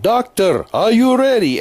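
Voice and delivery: high, loud call across the room; nurse yelling out. Retold or imitated. Nurse calls to the surgeon across the rooms, high loud yell. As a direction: shout it out to the doctor in the next section. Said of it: "she would yell out".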